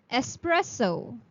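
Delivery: "espresso" slow, es-PRES-so with a clear S; slow careful espresso. Shown as a demonstration. Teacher spelling out the sound for the class. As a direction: draw "espresso" out slowly, es- not ex-. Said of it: "so you would pronounce it as".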